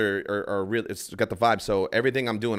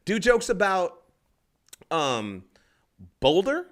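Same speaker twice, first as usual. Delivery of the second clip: heckling lady; 9 semitones higher, 5 dB louder, much slower than usual. Retold or imitated. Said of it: "this lady goes".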